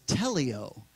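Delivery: teleo said as "TEL-ee-oh" in three syllables, not tel-ee-ah-oh; Greek word pronounced. Shown as a demonstration. Pastor teaches the Greek word teleo, deliberately. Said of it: "it's pronounced teleo instead of teleao".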